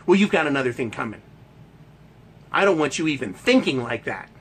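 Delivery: a hint of a tongue lashing from his wife; mock scolding wife. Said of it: "she goes".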